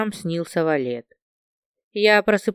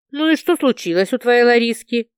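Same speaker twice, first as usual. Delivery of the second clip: impatient; 3 semitones higher than usual. Acted. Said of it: "не выдержала я".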